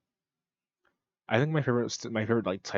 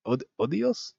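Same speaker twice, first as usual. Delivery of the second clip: higher, questioning stab at Spanish; attempted Hispanic accent; 4 semitones higher than usual. Shown as a demonstration. Trying out a sign-off, unsure Hispanic accent. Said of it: "I don't have, like, a Hispanic accent".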